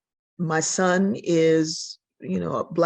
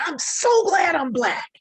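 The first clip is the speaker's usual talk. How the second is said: put-on child's voice; 8 semitones higher than usual.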